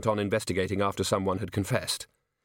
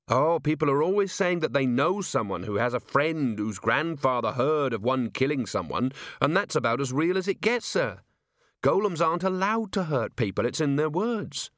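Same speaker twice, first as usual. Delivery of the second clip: higher-pitched, assured explainer; earnest officer; 5 semitones higher than usual. Acted. Officer dismisses rumours to his commander, earnest.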